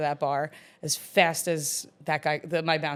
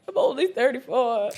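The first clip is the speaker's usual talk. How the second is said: higher, louder mock protest; a touch of mock outrage; indignant retort; 7 semitones higher, 4 dB louder than usual. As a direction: retell your own offended comeback. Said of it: "And I'm like".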